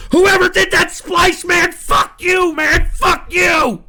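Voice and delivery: high, loud cursing at a prankster; outraged, stretched-out shout; furious shouting. Real, not acted. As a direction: yell it straight at the culprit. Curses whoever made the splice.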